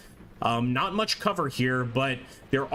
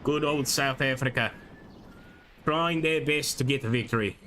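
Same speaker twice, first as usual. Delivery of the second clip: put-on South African accent. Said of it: "I was trying to improve my South African accent".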